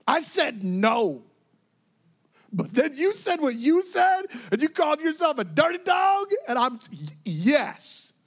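emphatic, loud, rising excitement; exultant delight. Retold or imitated. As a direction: act out Jesus thrilled into granting it. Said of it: "he exalted it. He loved it".

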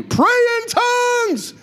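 high, drawn-out cry to the congregation; soaring, slow rallying call; rousing exhortation. Real, not acted. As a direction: urge them on, stretching each word high.

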